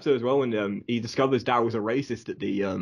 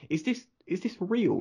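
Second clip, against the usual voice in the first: Mark; 9 semitones higher, 3 dB quieter than usual. Retold or imitated. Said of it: "And Mark's like".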